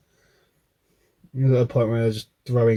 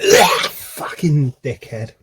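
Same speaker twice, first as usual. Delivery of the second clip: crying curse; 3 dB louder, slower than usual. Retold or imitated. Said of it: "I was like".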